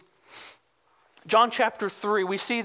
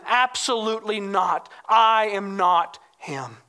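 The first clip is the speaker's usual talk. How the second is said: "Absolutely not. I am not him" firm, with a long stressed "I"; weight on "Absolutely" and "I", slowing to spaced words; emphatic denial. Retold or imitated. John shows them he is not Messiah, emphatic. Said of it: "it's emphatic".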